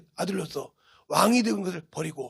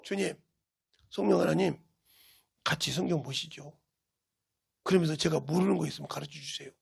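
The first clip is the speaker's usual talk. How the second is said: lower, softer reverent request; soft prayer; 3 semitones lower, 5 dB quieter than usual. Retold or imitated. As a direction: pray gently and humbly. Quoted prayer before reading.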